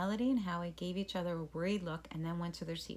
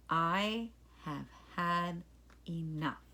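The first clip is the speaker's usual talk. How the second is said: slow, low, measured teacher warning; low stern voice; much slower than usual. Acted. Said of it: "speaking in the low voice".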